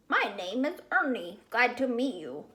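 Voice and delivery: a hint of a cheery children's TV puppet; Sesame Street voice. A narrator's reading. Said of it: "in his best Sesame Street voice".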